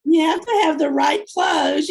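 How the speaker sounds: loud, high insistence on having the right clothes; high-pitched emphatic exclamation. Real, not acted. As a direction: stress it loudly, with conviction. Emphatic agreement about clothes.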